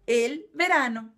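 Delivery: "el verano" said slowly, Spanish style; slow careful "verano". Shown as a demonstration. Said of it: "também é masculino em espanhol, mas é".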